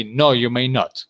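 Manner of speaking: firm, emphatic "No, you may not". Shown as a demonstration. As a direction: refuse firmly with weight on "No, you may not". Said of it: "if you want to be emphatic".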